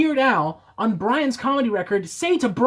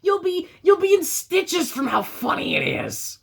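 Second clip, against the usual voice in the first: sarcastic; 7 semitones higher than usual. Acted. Sarcastic praise of song.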